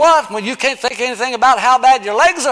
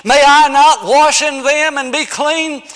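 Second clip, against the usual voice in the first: mild indignant Naaman; 4 semitones higher, 5 dB louder than usual. Acted. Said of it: "He said".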